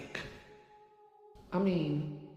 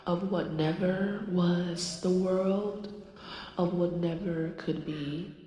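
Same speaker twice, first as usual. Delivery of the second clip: channeled goddess voice. Acted. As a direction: speak as a spirit passing through you. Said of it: "She wants to come through".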